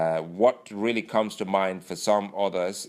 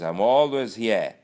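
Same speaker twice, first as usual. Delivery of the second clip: boastful Lawal; 6 semitones higher, 4 dB louder than usual. Retold or imitated. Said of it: "And he goes".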